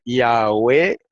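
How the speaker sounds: "Yahweh" said as ya-WE with a w glide; Yahweh pronunciation. Shown as a demonstration. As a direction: sound out "Yahweh" with rising end. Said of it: "se lee así como lo voy a leer".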